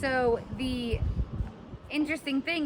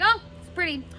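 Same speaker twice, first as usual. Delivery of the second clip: paraphrased Romeo; 4 semitones higher than usual. Retold or imitated. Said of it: "He's like".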